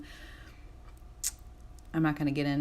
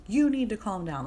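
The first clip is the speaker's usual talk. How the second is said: mock bossy order, pitched up; assertive, aggressive; 5 semitones higher, 4 dB louder than usual. Vlogger repeating her past self's order, mildly aggressive. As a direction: act out a pushy command. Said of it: "that's very assertive, that's very aggressive".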